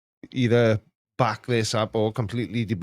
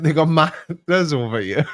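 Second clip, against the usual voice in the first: louder, higher correction; insistent retold repeat; 4 semitones higher, 4 dB louder than usual. Retelling a misheard remark to a friend, insistent. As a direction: repeat it more forcefully for the mishearer.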